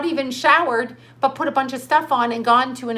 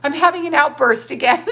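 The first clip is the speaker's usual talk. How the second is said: laughing at herself, a bit louder; 4 semitones higher, 4 dB louder than usual. Real, not acted. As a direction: giggle through the admission. Laughs at her own rant.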